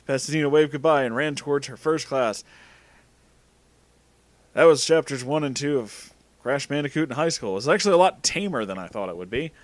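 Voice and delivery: usual speaking voice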